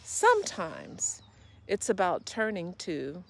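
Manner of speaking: expressive spoken monologue with long pauses and small laughs; reflective monologue. Acted. Wellness coach reflecting on childhood play and joy, reflective monologue. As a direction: perform it as a heartfelt solo piece, swelling then easing off.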